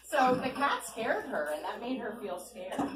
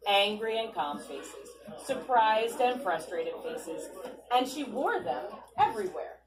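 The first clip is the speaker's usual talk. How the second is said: put-on louder, lively read-aloud to kids; storybook reading; 3 dB louder, slower than usual. A narrator's reading. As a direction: read it to a circle of children. Reading picture book aloud.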